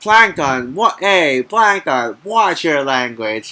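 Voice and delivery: lightly voiced scolding cartoon sponge, drawn out slowly; mock SpongeBob. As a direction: playfully scold Plankton in a put-on voice. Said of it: "and then he was like".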